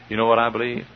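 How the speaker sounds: ordinary talk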